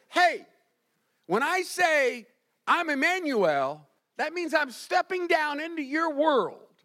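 high and loud, first words slowed; God calling out. Acted. Preacher voicing God to the congregation, loud and high. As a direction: call it out like God stepping in. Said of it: "God says".

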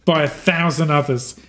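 lightly voiced mentor, encouraging and tender; a hint of a loving guide saying goodbye; gentle farewell. Departing figure urges Arlo to share his photos, lightly voiced and tender.

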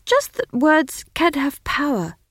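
put-on high, slow, earnest young wizard; nervous young wizard. Simon, young stuttering wizard.

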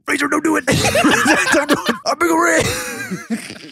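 high voice breaking into laughter; laughing self-plea. Retold or imitated. Retelling her pickle panic, high and laughing. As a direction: plead with yourself through giggles. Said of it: "I was like".

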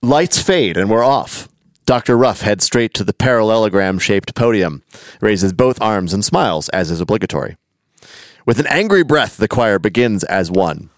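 reading a story aloud with lively emphasis; animated read-aloud; story narration. A narrator's reading.

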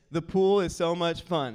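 put-on loud, upbeat model line for a toddler; feed the line for a child to repeat; dad's emphatic prompting voice; coaching a child. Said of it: "Repeat after me, Beckham. Say this".

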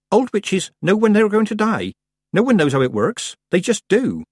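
put-on high, earnest young witch; timid girl voice. A narrator's reading. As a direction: explain it nervously. Petulia voiced in story.

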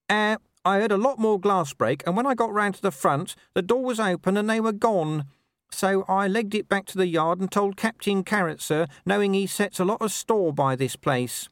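put-on a cautious young man reporting quickly; nervous young constable Ping.

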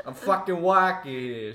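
loud, slow irate New Yorker bit. Pretend. Stockbroker blocked by a flash mob in New York, mock irate. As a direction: play an annoyed New York commuter. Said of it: "if you did this in New York City".

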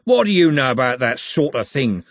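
Andy turning on the orc with a growl. Acted. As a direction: push the words out like a threat. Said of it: "growled Andy".

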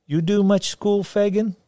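put-on high, curious girl; young girl voice. A narrator's reading. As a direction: ask it like a bold little girl. Cindy voiced by narrator.

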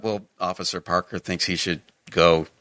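ordinary delivery

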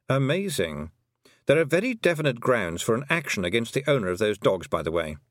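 lightly voiced lawyerly toad; toad, pedantic legal-minded creature. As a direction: deliver it like a mildly affected legal opinion.

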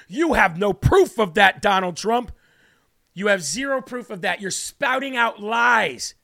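slow, scolding accusation; hammed-up indignant media; mock media denial. Host voices media dismissing the Wuhan claim, scolding.

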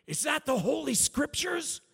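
high, loud mock-amazed holler; imitating an excited man's high yell; excited shout. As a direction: holler it like an astonished stranger. Stranger jumps on truck, calling out.

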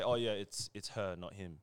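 casual, low-key shrug of a correction; chill, unbothered. Retold or imitated. Imitating relaxed people correcting a pronoun, chill. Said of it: "they actually chill with it".

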